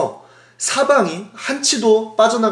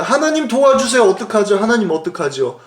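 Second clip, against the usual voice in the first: imitated frightened plea; 4 semitones higher than usual. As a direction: mock-desperate appeal that starts high and sinks. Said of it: "막 두려워서 떠는데".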